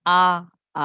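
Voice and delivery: আ, আ as two separate open vowels; two beats of আ with no r; double R. Shown as a demonstration. Teacher showing two Rs in spelling, separate আ. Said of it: "দুইটা আ বলবে".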